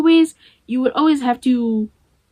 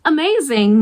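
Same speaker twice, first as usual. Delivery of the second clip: delighted; 5 semitones higher than usual. Retold or imitated. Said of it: "So I thought".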